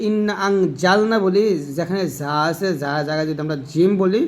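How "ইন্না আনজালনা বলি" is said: slow "ইন্না আনজালনা" with a plain জিম j; wrong jeem. Shown as a demonstration. Teacher showing the jeem mistake, slowly. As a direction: say "আনজালনা" with an ordinary j, not the z. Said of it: "আর যদি আমরা জিম বলি".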